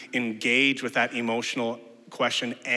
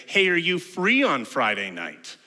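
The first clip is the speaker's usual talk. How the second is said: lightly acted friend, higher and slower; a casual invite, pitched up and drawn out; friendly asking; 6 semitones higher, 5 dB louder than usual. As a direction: pose it like a friend fishing for plans. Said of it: "Maybe your friends say to you something like this".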